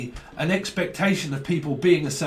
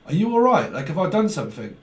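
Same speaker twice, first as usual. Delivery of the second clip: worried asking; 2 semitones higher than usual. Retold or imitated. Voicing worried friend.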